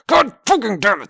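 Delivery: high, loud furious curse; angry shout. Real, not acted. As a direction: yell it at the barking dogs. Dogs barking during recording.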